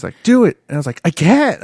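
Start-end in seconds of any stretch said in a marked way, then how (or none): 0.2-0.6 loud, raised imitation of a pushy teacher; insistent command. Teacher pushing a student through one lick, imitated loud command. 1.0-1.6 loud, high-pitched protest; retold yell. Student pushed too far by the teacher, retold yell. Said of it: "I just, like, yelled it".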